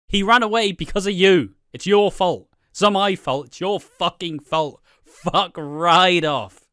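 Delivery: loud, high furious yelling; angry shouting. Retold or imitated. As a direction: yell it at him in a rage. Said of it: "shouting at everyone and raging".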